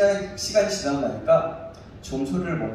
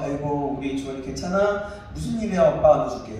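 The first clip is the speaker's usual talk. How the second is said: imitated gentle coaxing, slightly lowered; soothing a child; 3 semitones lower than usual. Father retelling how he first calmed his crying son, mildly soothing. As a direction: coax a fussy toddler, lightly acted. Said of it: "처음엔 조금씩 달래면서".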